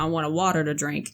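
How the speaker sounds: put-on casual order with a Northern accent. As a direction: let the northern accent show on "water". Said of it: "I said it just like that".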